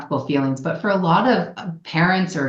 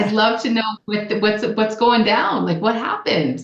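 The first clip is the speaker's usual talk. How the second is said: playful curious parent; 5 semitones higher than usual. Acted. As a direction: ask with mock amazement, stretching the words. Parent playfully asking kids what happened.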